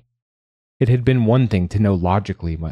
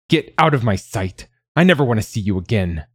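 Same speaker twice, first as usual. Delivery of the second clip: angry dismissal; 2 semitones higher than usual. Acted. Mother banishing her injured son, angry. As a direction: cast the child out angrily.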